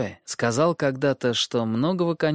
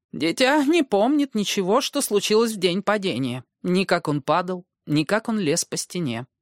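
gentle maester; 8 semitones higher than usual. Acted. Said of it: "мягко проговорил мейстер Лювин".

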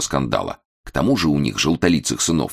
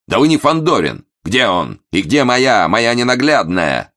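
loud outraged cry; 7 semitones higher, 5 dB louder than usual. A narrator's reading. Momus yelling at valet.

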